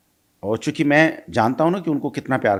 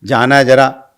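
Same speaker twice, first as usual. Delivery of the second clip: pleading for the keys; 4 dB louder than usual. Retold or imitated. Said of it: "मिन्नतें की थी".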